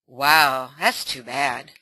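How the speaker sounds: ally mother comforting daughter; empathetic mother. Acted. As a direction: soothe her with kind concern. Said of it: "mother more like an ally".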